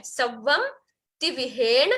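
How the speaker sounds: सवम तिविहेण word by word, ending on ण; careful recitation. Shown as a demonstration. Teacher modelling the correct words, careful recitation. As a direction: pause after सवम, then stop तिविहेण on n. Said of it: "तिविहेण बोलना है".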